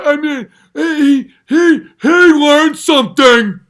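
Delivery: high, loud, slow mock awe; mocking gullible fan. Comic screaming an impression of duped fans. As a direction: shout a fan's gullible praise. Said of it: "People are literally gonna be like".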